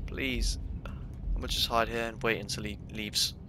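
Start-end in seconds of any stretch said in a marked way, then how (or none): 0.0-0.6 breathless whispered please. Real, not acted. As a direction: whisper a plea from hiding. Whispered plea while hiding.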